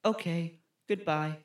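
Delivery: stilted, wooden farewell; mock bad actor signing off; flat film boyfriend. Co-host as boyfriend leaving girlfriend's room, wooden. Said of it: "that's exactly how they talk".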